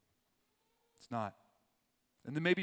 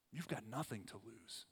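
softly repeated; 2 semitones lower, 9 dB quieter than usual. Shown as a demonstration.

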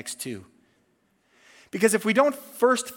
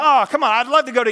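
mock whine; 5 semitones higher, 6 dB louder, faster than usual. Envy of the neighbor's vacation.

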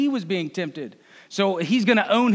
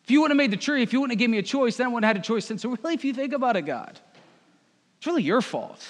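Eve blaming God; 4 semitones higher, much faster than usual. Acted. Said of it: "she replied".

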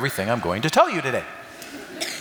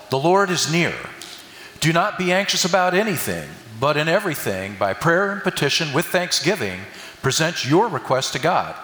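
scripture reading. Acted. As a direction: read the verse aloud to the church, settling down at the end. Reads Philippians aloud.

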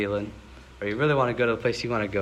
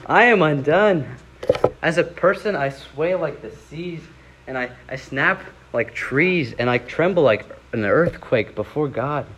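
raised, louder anguished confession; dramatic lament; 3 semitones higher, 3 dB louder than usual. Acted. Preacher voicing the undone believer, a raised lament. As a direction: tremble before God in the words. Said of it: "Woe is like".

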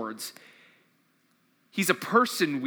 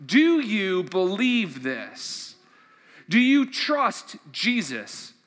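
earnest sermon appeal; preaching; 2 semitones higher than usual. Acted. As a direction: press each question on the listeners. Preaching at full force.

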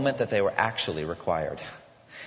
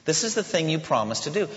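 pleading with God; 5 semitones higher than usual. Pretend. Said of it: "we take the promises of God and we say".

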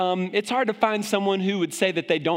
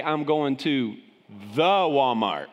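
southern the Walmart; 5 semitones lower, slower than usual. Shown as a demonstration. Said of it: "They say".

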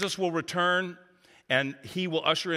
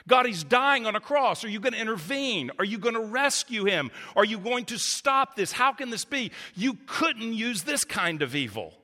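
raised, pleading cries to God; anguished prayer; 6 semitones higher than usual. Retold or imitated. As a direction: beg God to step in, voice lifted high. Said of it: "the disciples were asking".

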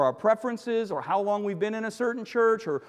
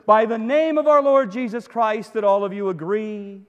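pressed harder and louder; louder appeal; 7 dB louder than usual. Acted. Preacher urging the church to agree, louder.

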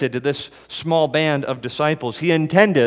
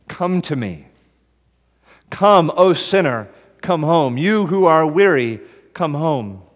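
pleading call, slow and louder; shepherd calling; 3 semitones higher, 5 dB louder than usual. Acted. Preacher voicing Jesus calling sinners home, pleading. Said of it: "the voice of the shepherd saying".

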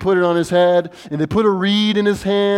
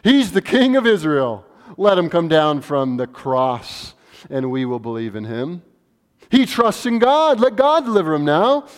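mild mocking taunt. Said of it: "There it is again".

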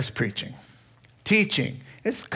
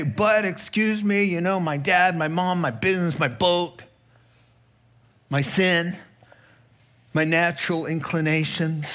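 listing excuses; 3 semitones higher than usual. Acted.

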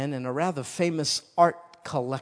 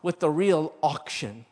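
loud, raised impatient crowd shout; exasperated group outcry at raised pitch; crying out; 5 semitones higher, 6 dB louder than usual. Acted. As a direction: cry it out as a fed-up crowd. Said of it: "They all cried out".

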